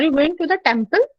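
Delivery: temple rises at the end, slow phrase; surprised weight on temple, you never go there; slow question lifting on temple; stress on temple. Shown as a demonstration. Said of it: "और third है टेंपल".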